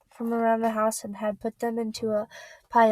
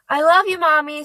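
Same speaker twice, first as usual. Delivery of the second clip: tearful goodbye call; 6 semitones higher, 8 dB louder than usual. Acted. Kids saying goodbye to Mom.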